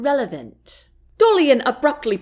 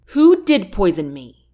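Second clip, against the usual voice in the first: with contempt; 5 dB louder than usual. Acted. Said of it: "Andrea asked with contempt".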